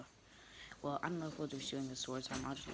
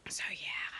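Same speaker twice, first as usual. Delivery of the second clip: whispering; 5 dB louder than usual. Real, not acted. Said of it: "back to whispering".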